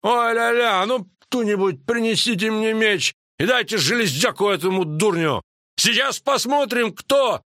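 high-pitched indignant tirade; Крахенкрайт ranting. A narrator's reading. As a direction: rage at a rival before the hall. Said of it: "неожиданно рявкнул Крахенкрайт".

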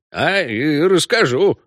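slow, decided declaration; resolute. A narrator's reading. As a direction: say it like a decision. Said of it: "решительно заявил Беня". (решительно)

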